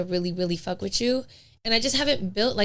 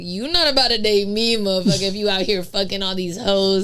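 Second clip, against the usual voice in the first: emphatic, louder mock confrontation; retold telling-off; 4 dB louder than usual. Woman retelling how she confronted her ex, indignant. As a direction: re-enact putting an ex firmly in their place.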